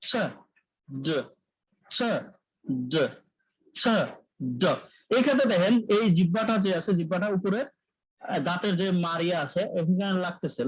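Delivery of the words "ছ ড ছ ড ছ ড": ছ breathed out unvoiced, then ড with voice, alternating slowly; paired sound demo. Shown as a demonstration. Teacher drilling the ছ and ড pair for the class. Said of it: "জোড়া sound আছে যেমন".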